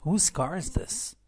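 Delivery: slow model reading. Shown as a demonstration. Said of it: "به این جمله توجه کنید".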